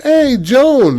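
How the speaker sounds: loud, high-pitched call across the room; hearty greeting. Retold or imitated. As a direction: greet her with a big whoop. Group greets her loudly.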